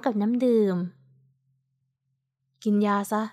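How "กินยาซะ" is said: lower, slow and cool; a hint of a stern man giving an order; understated chilly command, slow; cold voice. A narrator's reading. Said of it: "ดูเหมือนเย็นชาชอบกล".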